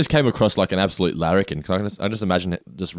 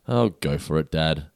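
lower, resigned imitation of a daughter; tragic but tender; 4 semitones lower, slower than usual. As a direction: give Dad your blessing with mild sad resignation. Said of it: "it's tragic but beautiful at the same time".

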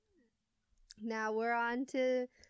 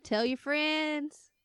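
slow, higher "Tell your friends"; unhurried, lilting promo line; drawn-out sign-off; 4 semitones higher, slower than usual. Pretend. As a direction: stretch "friends" like a playful plug. Hosts' sing-out sign-off, echoed.

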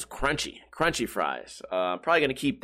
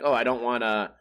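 mock customer. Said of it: "they're like".

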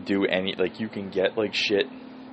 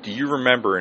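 mimicking buddy; 6 semitones higher, faster than usual. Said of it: "It's like".

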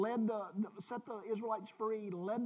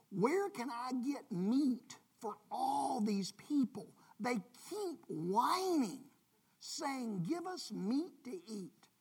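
slow, breathy near-whisper of despair; hushed lament; 3 semitones higher, 3 dB louder, slower than usual. Pretend. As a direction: let it sink to a weary whisper.

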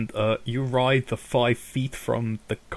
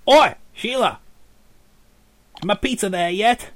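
shouting down from upstairs, much higher and louder; offstage yell; 7 semitones higher, 9 dB louder than usual. Acted. The boss yells to Sheila from upstairs, loud high shout. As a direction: bellow for the pizza from another room.

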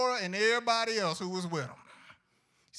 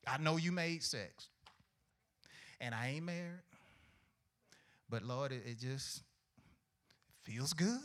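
quiet mock confession; 5 semitones lower, 8 dB quieter than usual. Young sinner admitting lust to God, softer and sheepish. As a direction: mumble it like a guilty church kid.

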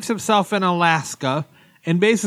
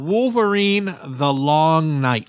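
dramatic title; slower than usual. Acted. Announcing podcast title dramatically.

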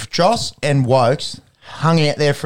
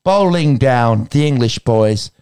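lightly put-on English accent as a caring mum; a hint of an English mum's accent, soothing her son; Gillian Anderson English accent. Impression for the co-hosts, lightly put-on English accent. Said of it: "this is me doing Gillian, um, Anderson".

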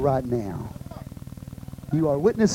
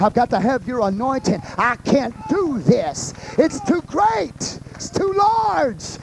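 prayer to God; 2 semitones higher than usual. Retold or imitated. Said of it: "I said, God".

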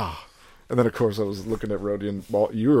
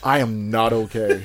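laughing not okay; 4 dB louder than usual. Retold or imitated. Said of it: "I was like".

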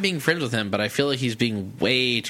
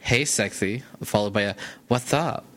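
gay guy voice. Retold or imitated. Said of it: "I like your single gay guy voice. It's got the lisp".

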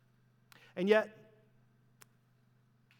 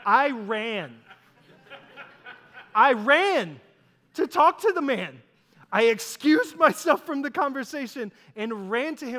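louder and higher, tumbling out in a rush; excited rush; 5 semitones higher, 8 dB louder than usual. Retold or imitated. Telling how he ran to the guitar player, excited and loud. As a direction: relive the giddy dash to a hero. Rushing to meet favorite guitarist.

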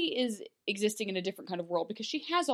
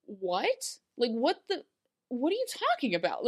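mock bewilderment; 3 semitones higher than usual. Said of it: "it's just that moment of".

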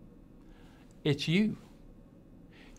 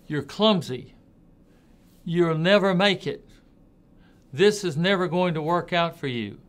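mock yelled insults; 4 dB louder than usual. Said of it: "somebody yells".

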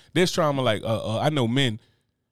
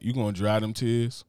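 mock threat; 4 semitones lower, 4 dB quieter than usual. Threatening son, retold.

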